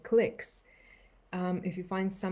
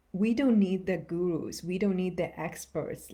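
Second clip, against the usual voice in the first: firm stress on "gurus", starting louder, then easing; emphatic; 3 dB louder than usual. Real, not acted. Meditation guide emphasizing that listeners can trust themselves, emphatic. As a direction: press the point home after a long pause. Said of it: "I really want to emphasize".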